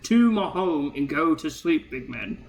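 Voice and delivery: lightly voiced dwarf, talking back; a hint of a put-out dwarf; unimpressed dwarf. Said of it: "The dwarf all the way in the back".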